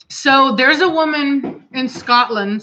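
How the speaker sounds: a clumsy mock Scottish accent, drawn out slowly; bad Scottish accent. Telling the story of the woman in Scotland, clumsy mock Scottish accent. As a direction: put on a weak Scottish lilt and fumble it. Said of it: "that was a horrible accent".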